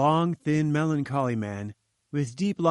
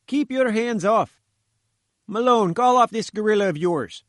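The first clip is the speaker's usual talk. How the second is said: indignant reporter; 8 semitones higher, 6 dB louder than usual. Acted. Reporter in the gatekeeper's grip, high, loud and indignant. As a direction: demand to be let go, outraged.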